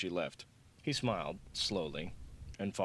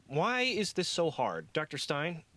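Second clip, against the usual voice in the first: timid call; 9 semitones higher, slower than usual. A narrator's reading. Intern calling nervously.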